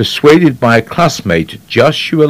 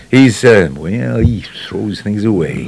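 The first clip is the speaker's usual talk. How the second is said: lazy, throwaway impersonation; slow down and let the words drop away; Henry Fonda; slower than usual. Shown as a demonstration. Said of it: "he talks like this".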